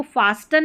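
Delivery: फास्टन with the T sounded; फास्टन spoken with the T, wrongly; wrong pronunciation. Shown as a demonstration. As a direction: say फास्टन with a clear T, as the mistake. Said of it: "नहीं पढ़ेंगे".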